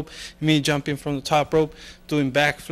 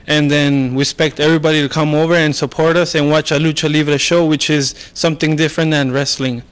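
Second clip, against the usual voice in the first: loud announcing; 5 dB louder than usual. Real, not acted. Wrestler announces the event.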